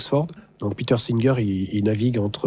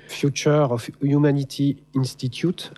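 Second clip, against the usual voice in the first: a lightly put-on English accent on "Future of Humanity Institute"; mock English accent. Shown as a demonstration. Lecturer naming an Oxford institute in a slight mock English accent. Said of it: "avec mon super accent anglais".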